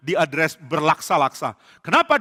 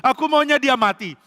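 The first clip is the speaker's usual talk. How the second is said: mock crying; 3 semitones higher, 3 dB louder than usual. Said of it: "langsung nangis".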